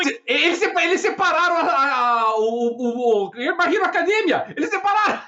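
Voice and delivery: high-pitched indignant laughing rant; outraged disbelief. Real, not acted. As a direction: squeal it in disbelief. Outraged over split anime catalogues.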